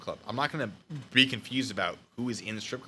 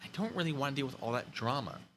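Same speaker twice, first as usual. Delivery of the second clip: plain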